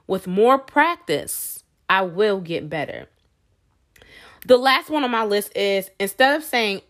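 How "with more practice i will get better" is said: slow, steady, reassuring; encouraging affirmation. Shown as a demonstration. Vlogger modeling encouraging self-talk, slow and steady. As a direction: say it patiently, like a coach.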